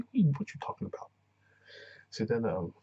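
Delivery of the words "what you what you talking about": high, panicky question; imitating a meltdown, hammed up; mock frantic confusion. Singer confused mid-breakdown, high mock panic. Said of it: "That's basically what she, she did".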